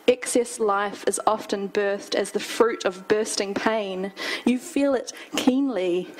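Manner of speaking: measured poetry delivery; poem reading. Acted. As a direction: read the verse to a small audience with care. Reads own poem aloud.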